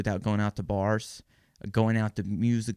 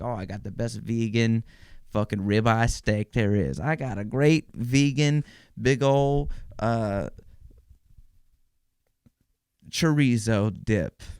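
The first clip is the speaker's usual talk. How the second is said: slow, louder mock brag; bragging vegan; 4 dB louder, slower than usual. Comedian mocking vegans bragging online, slow loud mock brag. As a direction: drag it out like a smug foodie showing off. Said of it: "They're like".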